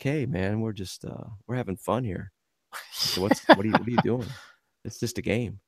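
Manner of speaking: soft, easygoing reasoning with an angry player; real calm. Retold or imitated. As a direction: goalie calmly talking to a furious opponent. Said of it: "And I'm real calm like that".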